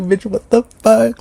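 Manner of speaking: high, drawn-out mock shock; retold disbelief. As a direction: act out stunned disbelief, slow and high-pitched. Retells her speechless shock at texts.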